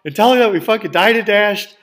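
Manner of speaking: high, loud, desperate half-joking plea; urging a collapsing friend to hang on; frantic pleading shout. Retold or imitated. To his friend with a bad heart, frantic shout.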